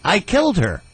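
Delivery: lightly voiced mock-sinister confession; a touch of menace, said high as a gag; mock killer's deadpan boast; creepy joke. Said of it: "I would laugh like a lunatic".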